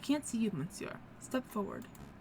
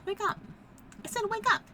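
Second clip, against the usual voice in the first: shouting wake up; 10 semitones higher than usual. Acted. Fisherman shouting at the unconscious lawyer to wake up. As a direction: yell to rouse a knocked-out man.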